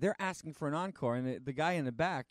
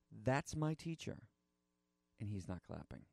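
hushed sad confession; 5 semitones lower, 8 dB quieter than usual. Retold or imitated. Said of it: "He says".

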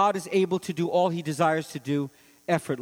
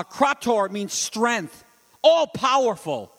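slow explanation; 4 semitones higher, 3 dB louder, slower than usual. Shown as a demonstration. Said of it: "explains Greek word slowly".

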